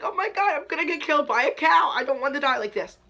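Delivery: high, panicky wail, half-mock; retold panicked crying. Kid surrounded by cows, sure she'll die, high mock-panicked wail. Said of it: "and I'm crying".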